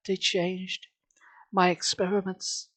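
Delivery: hushed whisper; whispering the failure. Acted. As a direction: breathe it out secretly. Owner recalls failed experiments.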